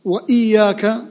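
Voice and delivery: وإياك with a held iy-ya; doubled ya. Shown as a demonstration. Teacher pointing to another shadda, stressed Y in وإياك. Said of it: "فيها شدة ثانية".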